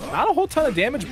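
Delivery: excited. Real, not acted. Caster reacting to live play.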